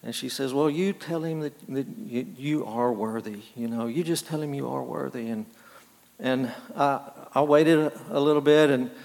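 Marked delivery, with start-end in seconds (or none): 0.5-5.3 low, soft retold reassurance; lightly acted tender encouragement; mildly consoling mother. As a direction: gently voice a mother consoling her crying son. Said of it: "his mother's trying to console him".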